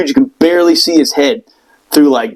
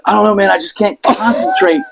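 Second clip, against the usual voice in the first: raised, confused blurt; higher, confused cry; dazed outburst; 5 semitones higher than usual. Retold or imitated. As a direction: blurt it out, lost. Dazed during stroke.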